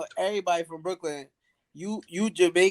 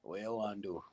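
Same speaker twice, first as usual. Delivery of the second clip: put-on lazy Jamaican accent; 9 semitones lower, 16 dB quieter than usual. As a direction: drag it out lazy Jamaican style. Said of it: "Jamaicans are lazy".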